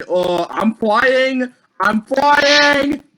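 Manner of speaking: excited. Real, not acted. Discovers he can fly.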